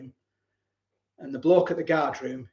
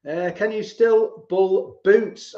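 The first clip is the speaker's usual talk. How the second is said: slow teasing call; 3 semitones higher, 5 dB louder, much slower than usual. Real, not acted. Teasing mate over drinks.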